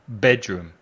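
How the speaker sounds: BED-room, weight on BED; stress on first syllable. Shown as a demonstration. Teacher giving bedroom to repeat, stressed on the first syllable BED. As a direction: hit BED in bedroom and let room fall. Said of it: "El énfasis está en la primera sílaba".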